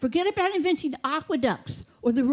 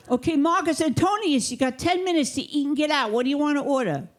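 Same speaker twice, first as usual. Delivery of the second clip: mild rude Brooklyn waiter, higher; a hint of a pushy New York waiter; Brooklyn accent; 4 semitones higher than usual. Rude Brooklyn waiter rushing a Roman customer, mild Brooklyn accent. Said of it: "See how I did that with the accent?".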